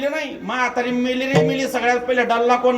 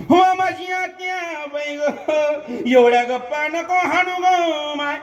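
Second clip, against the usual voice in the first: higher, half-sung mock lament call; the elder daughter-in-law calls back mid-wail, hammed up; elder daughter-in-law's reply; 3 semitones higher than usual. Elder daughter-in-law answers the younger across the body, in a mock wailing call. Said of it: "मोठी सून लहानीला तिकडून reply देते".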